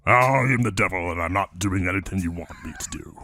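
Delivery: low snarling devil voice. Shown as a demonstration. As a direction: defy them as a possessed demon. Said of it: "do your demon voice".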